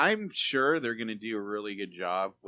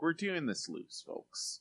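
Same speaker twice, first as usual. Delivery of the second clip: mock producer voice; 7 semitones higher, 10 dB quieter, slower than usual. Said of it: "where it's like".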